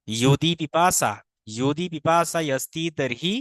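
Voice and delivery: measured Sanskrit reading, ইয়দি begun with a Y sound; pronunciation demo. Shown as a demonstration. Teacher modelling the sentence for learners, careful Y in ইয়দি. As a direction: recite it carefully, ইয়দি opening on Y, not J. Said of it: "উচ্চারণটা ইয়দি হবে".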